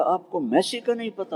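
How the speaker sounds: put-on a boy who can't believe it; amazed child. Boy stunned that the preacher doesn't know Messi, high and incredulous.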